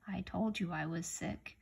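whispered, soft inner thought; silent look. Acted. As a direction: breathe it out as an unspoken complaint. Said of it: "a look as if to say".

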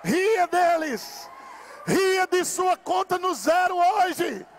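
rousing revival preacher at full cry; full-force preaching. Real, not acted. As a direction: preach it to the rafters.

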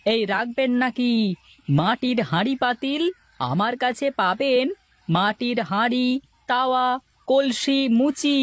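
calling out pots to passersby; hawker's call. Acted. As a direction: sing out the wares to the street. Potter calling out wares.

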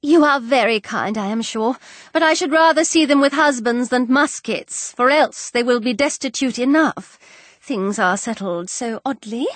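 lightly voiced anxious mother; fretful mother. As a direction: complain a little as a worried mother. Voices Missus Bennet in dialogue.

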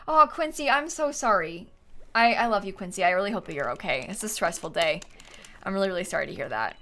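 soft, low, caring reassurance; sincere sympathy. Real, not acted. Streamer consoling a viewer on a stressful day, sincerely sympathetic.

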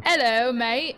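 put-on a light stab at an Australian accent. Greeting an English caller in a light mock Australian accent. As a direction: greet him in a mild, hammed-up Australian accent. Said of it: "the Australian accent".

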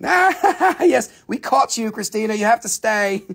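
high mock-villain gloat; gloating captor. Seller to Christina caught on the stream, mock gloating. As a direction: pounce on the caught visitor in mock triumph. Mock-menacing catch of a departing viewer.

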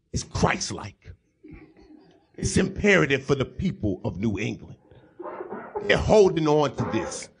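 low, grave pundit with heavy pauses; hushed, solemn overstatement; Stephen A. Smith. Acted. Pundit on Tom Brady's return, mock-solemn low impression. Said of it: "Smith, how important is Tom Brady's".

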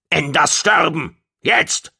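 high creature cry, rising to the last word; screaming. A narrator's reading. Gong orders the immediate killing, screaming. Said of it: "schrie Gong".

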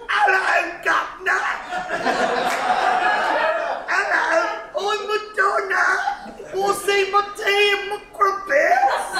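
hammed-up British accent; fake British accent. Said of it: "fake-o British accent".

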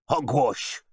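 loud, high-pitched scoff; blustering contempt; dismissive host. A narrator's reading. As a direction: dismiss it out of hand. Host dismisses butler's advice.

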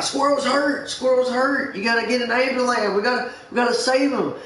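high, fast mock-panic coworker; joking alarm. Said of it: "he kinda jokingly talks to my main boss".

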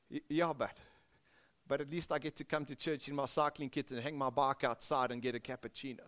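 embarrassed cyclist answering his mate; sheepish Benoni reply. Retold or imitated. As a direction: mumble the excuse shyly. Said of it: "in Benoni, it goes something like this".

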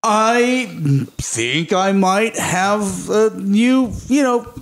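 lightly voiced Howard Stark, laughing through; father's message.

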